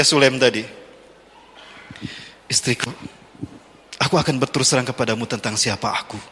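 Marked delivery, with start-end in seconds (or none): 2.5-6.2 low, soft and serious; a quiet admission; solemn confession. Retold or imitated. Husband confesses to his wife, low and soft.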